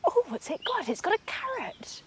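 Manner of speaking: gasp, then high and delighted; thrilled squeal at the sight; excited. Real, not acted. Gasps at beaver with carrot.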